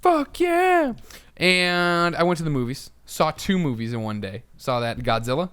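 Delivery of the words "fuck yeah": high, loud patriotic whoop; gung-ho America cheer. Acted. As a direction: overdreven patriottische Amerikaanse juichkreet. Team America style cheer.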